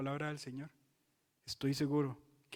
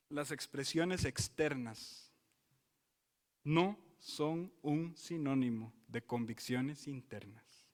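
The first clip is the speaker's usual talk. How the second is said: slow, deliberate, each word weighed; slow and grave from the pulpit; slow emphatic statement; slower than usual. Shown as a demonstration. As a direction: lay the principle down slowly. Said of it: "repeated as key statement".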